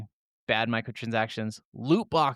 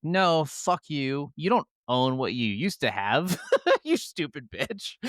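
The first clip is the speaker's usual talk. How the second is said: mock nasty game company; slower than usual. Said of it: "was like".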